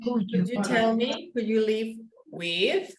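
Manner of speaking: rising question tune on "who you live with"; question intonation demo. Shown as a demonstration. Teacher modeling a question for a student, rising tune. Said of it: "Because who you live is the question".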